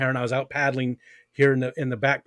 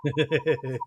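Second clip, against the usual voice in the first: loud squealing laugh; high burst of laughter; 6 dB louder than usual. Real, not acted. Listener laughs at story.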